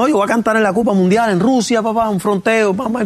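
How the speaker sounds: playful re-enacted bragging; retold bragging. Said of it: "yo estoy roncándole a todo el mundo".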